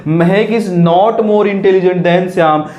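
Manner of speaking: slow dictation. Shown as a demonstration. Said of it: "teacher reads sentence slowly".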